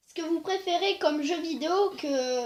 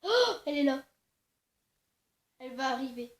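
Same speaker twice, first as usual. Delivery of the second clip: whispering while hiding; 8 dB quieter, faster than usual. Real, not acted. Partner hiding, Granny nearby.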